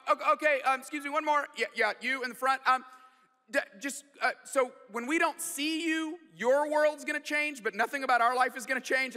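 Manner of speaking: dad playing coach at a press conference; coach taking questions. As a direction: point to the next questioner. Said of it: "like a press conference".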